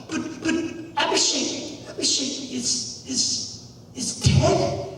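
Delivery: soft, near-whispered shock; falter, barely voicing the words; stunned disbelief. Boy hears his friend has died, hushed and stunned.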